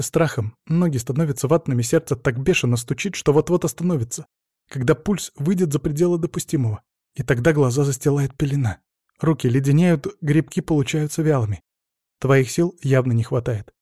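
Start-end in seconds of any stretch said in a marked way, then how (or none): none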